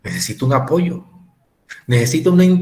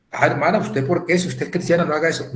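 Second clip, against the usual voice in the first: higher mock reproach; scolding believer; 5 semitones higher, faster than usual. Churchgoer reproaching a crying sister, higher mock scold. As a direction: parody a judgmental churchgoer.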